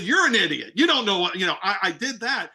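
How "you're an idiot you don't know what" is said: retold angry retort, louder; a heated insult, partly played back; matching his energy. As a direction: snap back at a rude caller. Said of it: "and I matched his energy".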